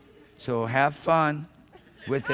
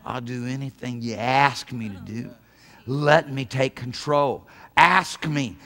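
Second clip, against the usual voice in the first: insistent, growing louder toward the end; God pleading, voice rising in volume; building plea; 3 semitones lower, 4 dB louder, slower than usual. Acted. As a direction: press harder with each phrase, building to a shout. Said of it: "God's screaming at the top of his lungs saying".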